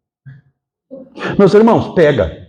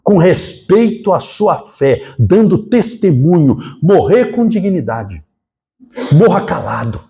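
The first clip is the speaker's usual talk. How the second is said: sereno; slower than usual. Retold or imitated. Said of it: "Ele falou".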